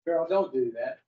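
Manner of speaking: low, soft voice of warning; gently warn, as if from inside; little inner voice. Acted. Inner voice cautioning someone about to do wrong, low and soft. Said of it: "Do you hear a little voice say".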